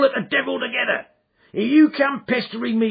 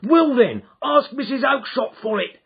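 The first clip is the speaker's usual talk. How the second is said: loud, much higher bellow; angry shout; 9 dB louder than usual. Acted. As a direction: shout him off the stall. Salesman yelling at cringing man.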